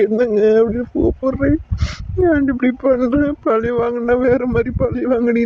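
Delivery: pleading through tears; grieving, weeping. Acted. Husband begs his dead wife to wake, weeping. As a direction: beg her to open her eyes, crying.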